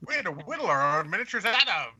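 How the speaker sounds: lightly voiced grumbling old-timer; a hint of a rambling grandpa; old man voice. Shown as a demonstration. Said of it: "old man voice".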